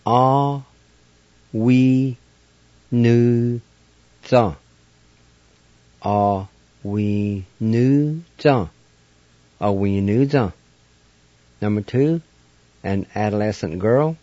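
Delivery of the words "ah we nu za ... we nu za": "Ah, we, nu, za" said syllable by syllable, each vowel clear; Cherokee pronunciation. Shown as a demonstration. Teacher sounding out "Ah, we, nu, za" for beginners, careful syllables. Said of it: "it's pronounced like this".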